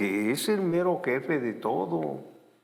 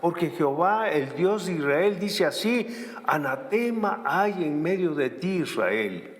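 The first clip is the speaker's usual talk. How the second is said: voice of the Lord; 4 semitones higher than usual. Acted. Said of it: "Le dice el Señor".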